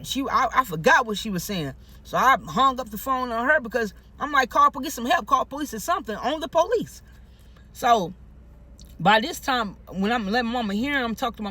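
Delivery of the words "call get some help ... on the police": high-pitched, insistent appeal; urgent plea. Retold or imitated. Caller urging mama to get help, high urgent plea. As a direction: push the request up high, urgently.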